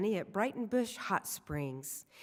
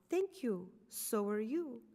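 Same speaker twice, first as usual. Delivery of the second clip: put-on French accent; 3 semitones higher, 4 dB quieter than usual. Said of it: "exotic French accent".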